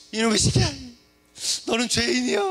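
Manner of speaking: loud, furious mock scolding; mother scolding. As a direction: yell at the kid as his mother. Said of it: "그 엄마가 막 걔를 때립니다". (아이를 꾸짖는 엄마의 큰 호통)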